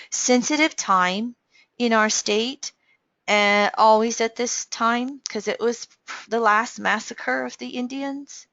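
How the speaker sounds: real emotion rising under a steady voice; getting emotional. Real, not acted. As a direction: voice lifting with real emotion, held back. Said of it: "I'm getting a little emotional".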